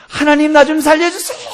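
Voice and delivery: very high, loud acted plea; full-voiced imitation of a desperate man screaming; desperate shout. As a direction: yell up to heaven for rescue. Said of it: "하고 소리를 질렀습니다".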